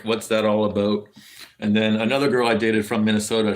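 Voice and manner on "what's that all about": put-on Canadian accent with "about" said like "aboat"; ex-girlfriend's thick Canadian accent. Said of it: "she had a very, very thick".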